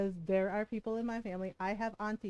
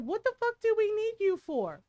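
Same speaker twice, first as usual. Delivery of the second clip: higher, louder defiant comeback; loud retort; 11 semitones higher, 6 dB louder than usual. Retold or imitated. Retold retort to the man who insisted, loud and high. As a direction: throw it back at him hard.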